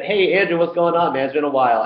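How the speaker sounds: high, bright imitation of a friend's hello; cheery greeting from a stranger. A stranger at the party greets him brightly by name. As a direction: play the overfriendly college buddy. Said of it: "He said".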